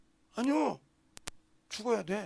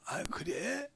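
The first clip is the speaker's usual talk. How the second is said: gentle reply; 5 dB quieter, much slower than usual. Retold or imitated. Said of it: "이런다는 거예요".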